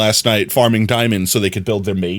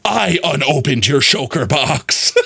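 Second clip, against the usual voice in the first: gleeful confession; 3 semitones higher, slower than usual. Real, not acted.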